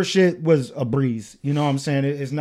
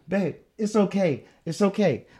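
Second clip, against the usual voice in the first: gentle reassurance; 2 semitones higher, 4 dB quieter than usual. Retold or imitated. Retells reassuring partner in labour.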